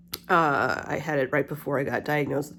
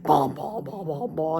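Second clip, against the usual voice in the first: imitating MRI machine. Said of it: "when you hear, like".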